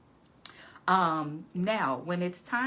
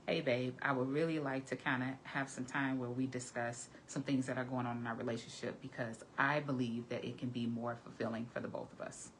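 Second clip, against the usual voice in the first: tactful, gentle; 4 semitones lower, 4 dB quieter than usual. Shown as a demonstration. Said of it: "Another way to say it is".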